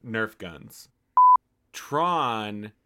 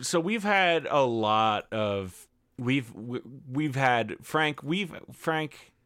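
mock faltering, halting restarts; hammed-up struggle to get words out; steadying shaky voice; 3 semitones higher, slower than usual. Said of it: "I'm getting a little choked up".

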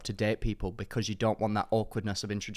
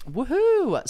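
high, slow, drawn-out woohoo; a hammed-up little cheer; sarcastic woohoo; 6 dB louder than usual. Cheering after gay section.

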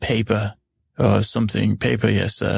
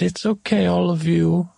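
much higher acted comforting voice; reassuring; 7 semitones higher than usual. Comforting the abandoned creatures, high reassuring voice. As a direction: comfort a whole group, pitched high. Comforts the crying, forgotten group.

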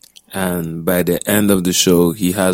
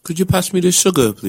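fast, higher put-on British accent; mock British accent; 9 semitones higher, faster than usual. Cohost teasing host with a mock British accent, pitched high. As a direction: play a posh Brit at tea asking politely. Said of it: "is our British accent?".

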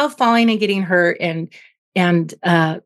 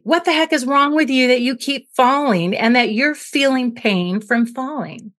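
scolding parent; 4 semitones higher than usual. Retold or imitated. Angry parent scolding baby.

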